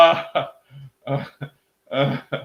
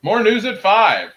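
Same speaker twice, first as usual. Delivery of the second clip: news anchor sign-off; 6 semitones higher, 8 dB louder than usual. Pretend. Mock newscaster sign-off.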